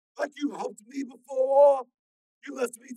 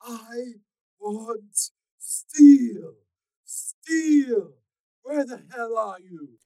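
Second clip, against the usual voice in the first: high, loud call; 13 semitones higher, 17 dB louder, much slower than usual. A narrator's reading. Stalker calling for Steel, a loud high yell. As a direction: yell across the concourse. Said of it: "called out".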